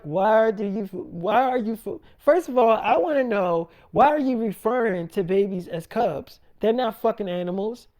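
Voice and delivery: mock a mother's incredulous demand; acted outrage. Mother challenging daughter over "cubs", acted indignant outburst.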